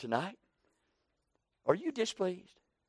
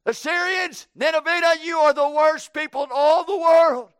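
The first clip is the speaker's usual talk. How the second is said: loud, high preaching at full force; fiery condemnation; 4 semitones higher, 4 dB louder than usual. Acted. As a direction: thunder judgement down on the city. Jonah preaching doom on Nineveh.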